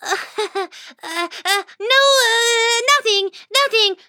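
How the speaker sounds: high, hurried nervous denial; squeaky stammering cover-up; flustered little mouse. Acted. Whiskers denying to Dad, high flustered squeak. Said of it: "I muttered".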